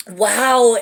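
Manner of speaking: loud, drawn-out wow of real amazement; amazed wow. Real, not acted. Card reader struck by the message, amazed.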